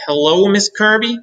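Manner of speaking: high, loud, strained greeting; a startled boy greeting his teacher, high and loud; nervous boy voice. A narrator's reading. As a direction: squeak it out like a scared kid.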